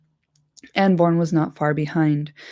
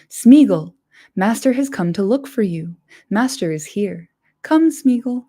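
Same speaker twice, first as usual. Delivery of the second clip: calling out; 3 semitones higher, 5 dB louder than usual. Acted. Frodo calls into dark.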